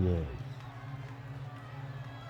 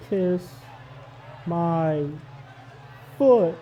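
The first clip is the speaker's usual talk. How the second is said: shouted catchphrase; 3 semitones higher, slower than usual. Acted. King's catchphrase climax.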